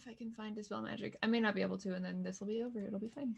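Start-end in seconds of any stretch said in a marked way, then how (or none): none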